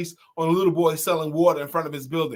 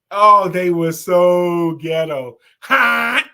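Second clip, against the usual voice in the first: excited; 8 dB louder, much slower than usual. Real, not acted. Laughing recalling TV show.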